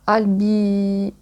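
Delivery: slow, halting English with a French accent; careful French-accented English title. Real, not acted. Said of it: "Super, mon accent".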